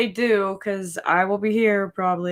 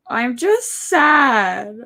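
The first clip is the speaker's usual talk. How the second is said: sad; 3 semitones higher, slower than usual. Real, not acted.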